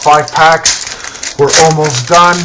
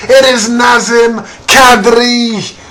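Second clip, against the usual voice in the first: excited shout; 5 semitones higher, slower than usual. Real, not acted. Big card reveal, shouted.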